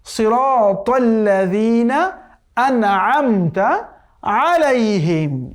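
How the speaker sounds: drawn-out tajweed chanting; slow Quran recitation. Shown as a demonstration. Teacher reciting the verse for students, slow chant. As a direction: recite each word slowly and carefully.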